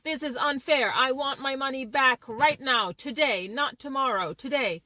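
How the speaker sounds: a mild demo of a frustrated customer; moderately heated complaint; angry client. Shown as a demonstration. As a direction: push the words out like a fed-up caller. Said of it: "talking in a very angry and frustrated voice".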